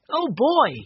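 put-on high thrilled cry of a young boy; excited cry. A narrator's reading. Benny hearing about the Tahiti ship, excited cry. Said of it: "cried Benny".

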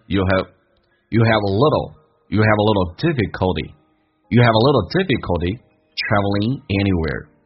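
slow build-up, "have" reduced to "həv"; "you have" slurred as "you'll həv", stress on "little"; unstressed "have". Shown as a demonstration. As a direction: run "have a" together lightly. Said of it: "Have不被强调".

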